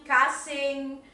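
"cousin" said distinctly as a sample word; model "cousin" pronunciation. Shown as a demonstration. Teacher corrects a pupil's word, careful "cousin". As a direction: sound out "cousin" for learners. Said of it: "ojo con la pronunciación de".

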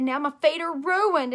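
put-on slow, high, loud child's wail; tearful whine. A narrator's reading. Child upset over her lost shoe, whining tearfully. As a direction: drag it out like an upset kid. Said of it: "I started to cry a teeny bit".

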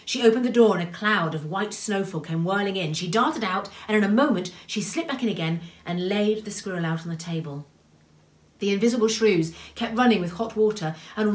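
animated telling that settles at the end; story narration. A narrator's reading. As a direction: read the rescue with urgency, then subside. Reads a story aloud.

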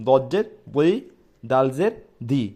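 দজ্জের বই thick, দালজের দি soft and slow; heavy then soft letter. Shown as a demonstration. Teacher contrasting two letters for students. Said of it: "দালজের দি নরম".

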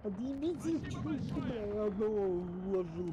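high, loud exasperated rant; angry rant. Real, not acted. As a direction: vent at the teammates. Raging after dying.

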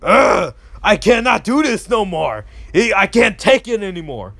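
imitating a fed-up gamer; groaning, worn out by it all; exasperated groan. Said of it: "And I look like".

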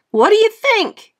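put-on high, loud eager kid; eager child voice. A narrator's reading. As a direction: show off proudly. Frankie shows himself off.

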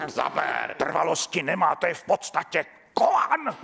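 fervent theatre guru, rising to a high, loud cry; over-the-top imitation of a Chinese-theatre specialist; Hubert Krejčí. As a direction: urge the actor on with huge drawn-out emphasis. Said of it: "Pak přišel Hubert Krejčí".

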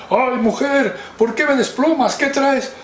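high, complaining dragon voice; woken dragon. Acted. Dragon complains to his wife about her plucking his feathers. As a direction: grumble as a dragon roused from sleep.

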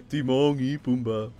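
drawn-out mock Spanish accent after a laugh. Streamer amused by own joke, Spanish accent. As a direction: say it slowly with a playful Spanish accent. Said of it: "I said it with a Spanish accent".

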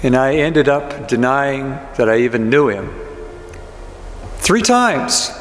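lightly acted grieving disciple, close to own voice; Peter in character. Grieving disciple confiding in the congregation, lightly voiced and subdued. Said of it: "I'm going to try to get into the character of Peter".

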